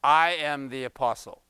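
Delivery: "I" leaned on firmly, then "am the apostle"; stress on I. Acted. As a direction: put the weight on "I". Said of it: "the emphasis is".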